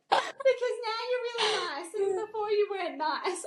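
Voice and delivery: high, lightly voiced teasing girl; imitating a staff member. Staff member teasing the salon owner about her past, in a high cheeky voice. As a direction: play the girl who is cheekily blunt. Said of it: "one of my girls, she goes".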